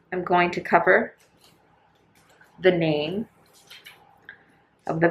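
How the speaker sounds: muffled behind a mask. Real, not acted. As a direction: speak through a face mask. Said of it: "If I sound muffled".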